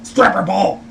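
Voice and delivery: imitating a mock-presidential impersonation; Nixon. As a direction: do a hint of a famous president impression. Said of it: "he does his Nixon impersonation".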